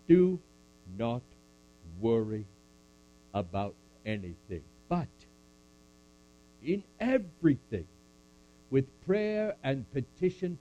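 solemn measured recitation; scripture recitation. Acted. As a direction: recite it like a benediction.

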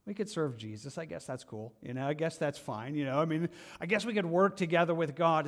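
mildly bored shrug; a hint of half-hearted listener; mock indifference. Preacher mimics a lukewarm churchgoer, mildly bored. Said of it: "kind of the doldrums".

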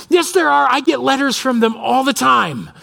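put-on high child voice, insisting; defiant daughter. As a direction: argue back like a stubborn kid. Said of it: "she's like".

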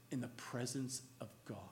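hushed, breathless whisper; awed whisper. Real, not acted. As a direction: breathe it out in reverence. Awed hush at the climax.

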